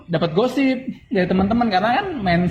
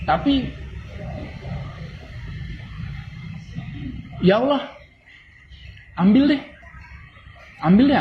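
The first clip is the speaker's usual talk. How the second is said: a raised, pleading call to God; sincere raised appeal; heartfelt plea; 8 semitones higher, 4 dB quieter than usual. Real, not acted. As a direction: cry out to Allah with your voice lifted.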